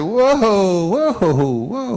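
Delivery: high, loud drawn-out whoa. Retold or imitated. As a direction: rein the kid in with a loud whoa. Calming upset child.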